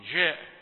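"جاء" softened to zh; jeem near sheen. Shown as a demonstration. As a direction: let the jeem of "جاء" drift toward sh. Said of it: "تبقى قربتها من الشين". (جيم "جاء" رخوة مقربة من الشين)

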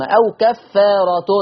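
slow كفارة ending in -tun; tanween with damma. Shown as a demonstration. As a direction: say أو كفارة as "aw kaffaaratun". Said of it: "تاء منونة بالضم".

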